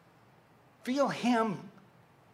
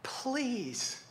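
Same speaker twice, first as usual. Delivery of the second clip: soft, higher-pitched plea; begging; 5 semitones higher, 9 dB quieter than usual. Acted. Parent pleading with a straying child, soft begging. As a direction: beg quietly, like a desperate parent. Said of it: "you're begging".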